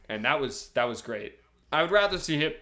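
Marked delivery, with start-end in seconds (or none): 1.7-2.5 talking through hiccups; hiccuping mid-sentence. Real, not acted. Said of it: "Sorry, I just hiccuped".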